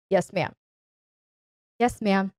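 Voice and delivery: calm and sure, no question in it; calm confirming. Shown as a demonstration. Student confirms the command, calm and steady. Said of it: "Without the tone of question in your voice".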